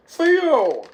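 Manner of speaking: high, loud drawn call repeated like an echo. Retold or imitated. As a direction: call out and let it ring. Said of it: "is like Echo".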